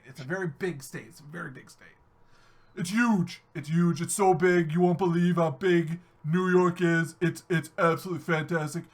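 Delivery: overstate it like a salesman; insisting to friends how huge New York is; exasperated explaining. Retold or imitated. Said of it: "It's like".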